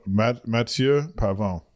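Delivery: Mathieu Pavon said slowly the French way, ma-TYUH pa-VON; slow, careful French Mathieu Pavon; French pronunciation. Real, not acted. Naming the golfer on the podcast, slow French pronunciation. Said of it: "I don't know why I said it French like that".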